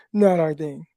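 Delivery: chuckling as he repeats it; amused, half laughing. Real, not acted. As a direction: laugh the line back out.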